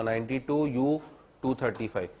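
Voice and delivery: English numbers read plainly one by one; pronunciation demo. Shown as a demonstration. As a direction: say it in order, नाइंटी टू यू टू थर्टी फ़ाइव, each part spelled out. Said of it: "मैं यही बोलूँगा".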